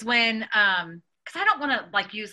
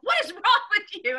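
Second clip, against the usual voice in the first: higher, louder dad cry of what; exasperated dad; 10 semitones higher, 4 dB louder than usual. Retold or imitated. Dad scolding the kids for the prank, exasperated. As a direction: play dad, half-exasperated. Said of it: "And my dad was like".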